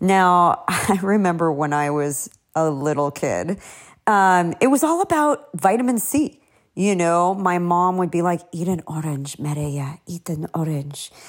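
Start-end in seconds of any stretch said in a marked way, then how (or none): 8.5-11.1 put-on cute Egyptian accent, low and soft. Remembering childhood, the speaker quotes their mom in her cute Egyptian accent. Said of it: "in her cute Egyptian accent".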